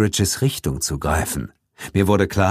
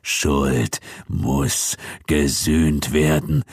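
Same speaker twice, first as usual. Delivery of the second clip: slow, low, hollow undead voice; vengeful ghost pronouncing judgment; 5 semitones lower, much slower than usual. A narrator's reading. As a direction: intone it slowly like a ghost from the grave. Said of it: "erklang Thompsons Stimme".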